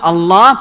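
الله with a full, dark, heavy L; emphatic tafkhim. Shown as a demonstration. Teacher demonstrates the rule after damm and fath, heavy L. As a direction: sound out الله with velarized double L. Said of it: "التفخيم، تقول".

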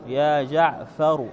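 يا جعفر said slowly, ending on a clear u, "ja jaʕfaru"; slow teaching demo of يا جعفر; slow demo of the name. Shown as a demonstration. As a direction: spell out يا جعفر slowly, voicing the final u. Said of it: "فمثلًا جعفر".

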